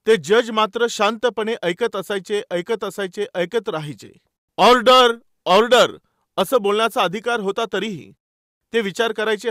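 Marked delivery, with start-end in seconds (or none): 4.6-6.0 retold judge calling the court to order, loud; mock judge's call.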